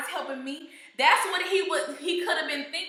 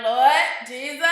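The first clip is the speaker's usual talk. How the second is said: exasperated cry; 6 dB louder than usual. Retold or imitated.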